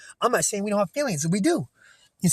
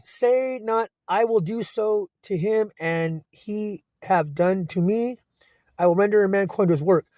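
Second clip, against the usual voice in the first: scripture reading; 2 semitones higher, slower than usual. Acted. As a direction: lay down the verse like a sermon. Reads scripture aloud.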